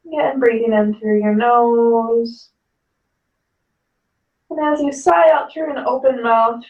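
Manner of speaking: calm yoga teacher guiding the breath; guided yoga instruction. Acted. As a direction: talk the class gently down into the pose.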